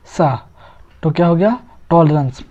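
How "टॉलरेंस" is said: टॉलरेंस with a short, reduced vowel in the second syllable; correct pronunciation. Shown as a demonstration. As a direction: say टॉलरेंस as "TOL-runs". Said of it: "इसका सही उच्चारण क्या है".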